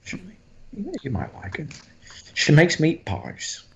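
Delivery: halting, falsely friendly Cockney killer; creepy Cockney villain. Shown as a demonstration. Villain excusing the blades to a guest, creepy Cockney. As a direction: swoop up high, sinister Cockney politeness.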